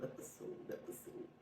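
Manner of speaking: whispered fading echo; echo effect. Pretend. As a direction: repeat it like a dying echo.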